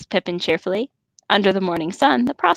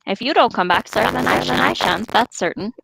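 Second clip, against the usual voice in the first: put-on Sam's rustic English accent, loyal and earnest; a light rustic Sam Gamgee accent, steadfast; 3 semitones higher than usual. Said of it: "I'm losing Sam's accent badly here".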